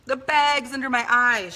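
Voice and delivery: imitating disgusted mother. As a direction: squeal in disgust at her own body. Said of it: "she would say".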